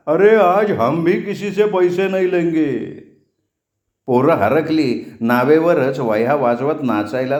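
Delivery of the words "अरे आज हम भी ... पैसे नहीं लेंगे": higher-pitched mild narrated shout; exultant shout. A narrator's reading. Ferryman declares free rides to cheering boys, mild happy shout. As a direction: call it out like a jubilant ferryman, without full volume. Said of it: "चाचाजी हात उंचावत ओरडला".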